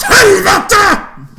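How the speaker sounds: full-force, high-pitched yell; acted scream. Player retells screaming after stabbing own leg, acted scream. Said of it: "and I scream out".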